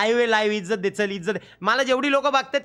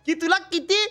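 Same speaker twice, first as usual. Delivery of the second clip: drawn-out praise; 9 semitones higher, slower than usual. Real, not acted. Praising AI for remembering.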